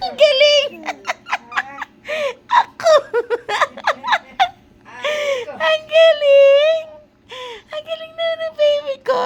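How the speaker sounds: high, loud squealing praise. Real, not acted. Parent praising baby, high squeals.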